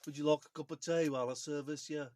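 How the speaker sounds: imitating a Midlands accent; copied Midlands accent. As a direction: copy the Midlands accent just demonstrated. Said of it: "say that in a Midlands accent".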